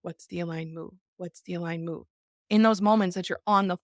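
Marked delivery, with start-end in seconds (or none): 0.0-2.1 quiet self-questioning. Retold or imitated. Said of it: "and instead going".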